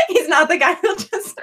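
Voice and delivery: talking through real giggles; helpless laughter. Real, not acted. Sorting Reese into a house, real laughter breaking in. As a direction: try to finish while cracking up.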